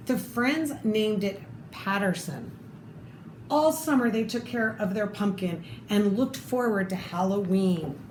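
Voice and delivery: lively read-aloud storytelling voice; story narration. Acted. Reading a picture book to children, lively storytelling.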